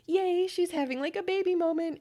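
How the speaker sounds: mock excited. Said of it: "I'd be like".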